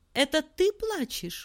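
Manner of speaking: surprised, open wonder. A hermit hearing a sea rose sob, surprised question. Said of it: "удивленно спросил отшельник".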